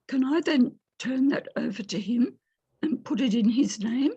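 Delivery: croaky voice from a cold; rough, croaky throat; hoarse. Real, not acted. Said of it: "Excuse my croaky voice".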